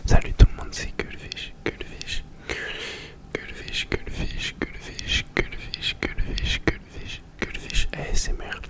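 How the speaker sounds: close-mic ASMR whisper; right in your ear. Real, not acted. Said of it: "encore proche du micro".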